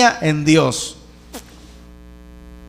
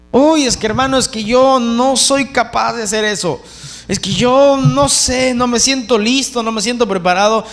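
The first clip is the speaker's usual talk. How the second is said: imitated self-doubting believer, raised at the start; mock reluctant excuses; 3 semitones higher than usual. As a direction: act out someone begging off a task. Voices a believer making excuses.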